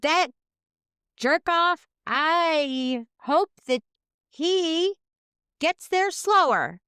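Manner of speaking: high, slow mock fury; hammed-up pitch for jerk; mock outrage. Mock supportive rant.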